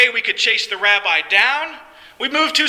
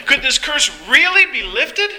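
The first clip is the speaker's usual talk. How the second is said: higher, mildly excited wondering; excited hope; 4 semitones higher than usual. Acted. Paralyzed man wondering at a possible cure, mildly excited. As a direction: ask with a touch of hopeful excitement, pitched up. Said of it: "with the excitement in his voice".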